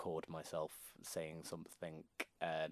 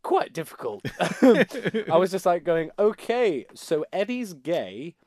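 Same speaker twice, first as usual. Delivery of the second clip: laughing; 9 semitones higher, 16 dB louder, slower than usual. Real, not acted. Laughing about his camp posh attempt.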